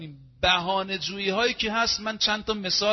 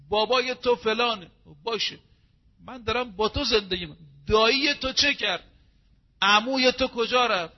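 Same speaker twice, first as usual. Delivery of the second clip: higher, mocking jabs about the in-laws; mock marital taunt; 5 semitones higher than usual. Preacher voicing a spouse taunting the in-laws, higher and mocking. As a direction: needle them about their family.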